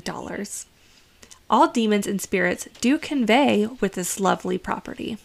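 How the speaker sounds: gushing real estate agent pitch; realtor voice. Acted. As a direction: sell the house like a cheerful realtor. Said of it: "back to Realtor Devin".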